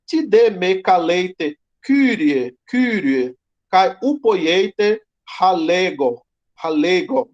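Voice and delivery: slow, emphatic reading of "Ti de me caleite, Kyrie"; "caleite" and "halego" with an h sound and the full ei; Greek verse read aloud. Shown as a demonstration. Teacher reading Luke to students, slow and careful. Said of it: "Jesus disse aos seus discípulos".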